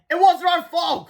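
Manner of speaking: high, loud slow protest; pleading cry. Acted. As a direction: plead your innocence loudly. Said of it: "cried Harold".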